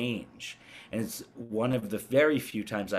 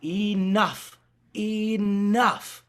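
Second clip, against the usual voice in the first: high, pleading gentle ghost; kindly spirit voice; 11 semitones higher, 6 dB louder, much slower than usual. Retold or imitated. Imitating the kind voice on his recording, high and gentle. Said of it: "One, one was very kindly and good".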